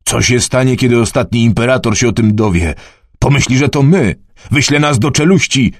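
a scared villager fearing punishment; a hint of frightened Teper. Teper panics about consequences. (Teper przerażony, z narastającą paniką)

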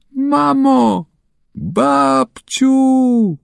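put-on child locked in the dark, crying out in panic; frightened cry for help. A narrator's reading. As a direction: call for mum and grandma, scared and trapped. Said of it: "Krzyczy, wali ręką w ścianę".

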